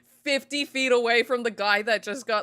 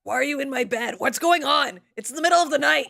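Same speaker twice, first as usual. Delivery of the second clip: startled; 4 semitones higher, 4 dB louder than usual. Acted. Voicing startled character at night.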